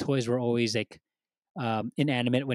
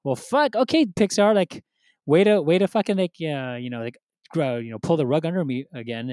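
exasperated; 3 semitones higher, 5 dB louder than usual. Retold or imitated. Exasperated at Pixar tearjerker.

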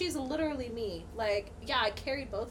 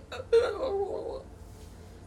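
mock crying; 7 semitones higher than usual. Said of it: "And then I'm like".

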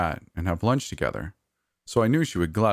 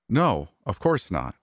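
stammering; 4 semitones higher, slower than usual. Acted. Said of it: "I stammered, trying to sound confident".

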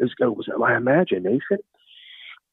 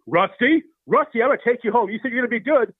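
higher-pitched urgent appeal; pleading carer; 11 semitones higher than usual. Acted. Tyler to misbehaving Rusty in Safeway, pleading. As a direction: plead with him in a raised pitch.

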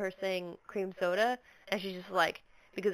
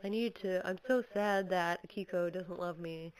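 mopey; 6 dB quieter than usual. Retold or imitated. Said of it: "he's just like".

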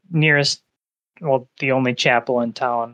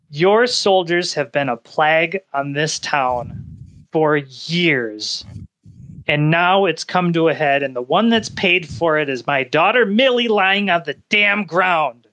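rising, pitched-up rage by "my daughter Millie"; angry accusation. Acted. Grieving father confronts the officer about his daughter, furious. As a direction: build the grief into fury. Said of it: "being spoken to this way".

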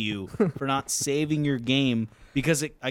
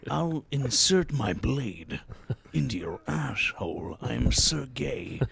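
Sergey impression; 2 semitones higher than usual. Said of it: "impersonating Sergey the Russian kid".

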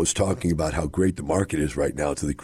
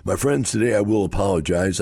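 ordinary talk

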